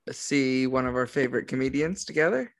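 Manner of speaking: ordinary talk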